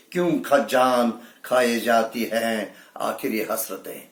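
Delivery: measured Urdu verse delivery; mushaira-style recital; poetry recitation. Acted. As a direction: recite it as a ghazal line. Recites a ghazal couplet.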